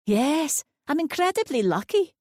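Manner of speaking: put-on high, contented old lady; proud of her view; old lady's voice. A narrator's reading. Linda agreeing about her view, pleased.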